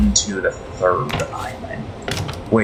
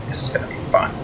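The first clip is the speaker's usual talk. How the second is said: sarcastic whisper; much faster than usual. Real, not acted.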